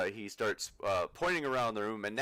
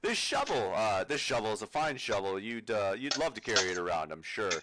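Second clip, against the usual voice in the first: pushy salesman. Acted. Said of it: "he's just trying to sell you stuff".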